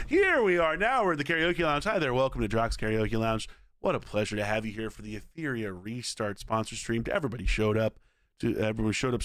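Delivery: lightly voiced smooth lounge host. Streamer welcoming viewers to his karaoke lounge as host. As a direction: welcome them in like a lounge emcee.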